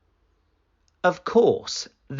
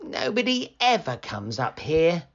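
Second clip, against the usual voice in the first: moaning; 5 semitones higher than usual. Acted. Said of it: "moaned Sam".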